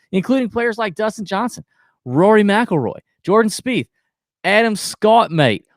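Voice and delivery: podcast ad read with a playful hype middle. Acted. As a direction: sell the shaft like a host read. Reads sponsor ad.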